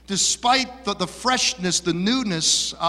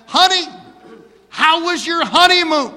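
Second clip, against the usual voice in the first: sweet mother's voice; 11 semitones higher than usual. Acted. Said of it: "called the young bride and said".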